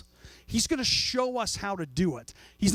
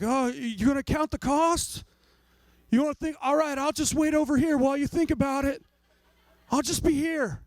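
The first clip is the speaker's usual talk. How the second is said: higher, teasing patience with a laugh; a hint of an amused Jesus waiting; amused mock patience; 6 semitones higher than usual. Jesus teasing the dithering believer, higher and amused.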